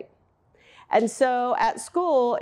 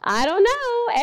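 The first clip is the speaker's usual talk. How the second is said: playing dumb; 10 semitones higher, 3 dB louder, slower than usual. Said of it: "And he goes".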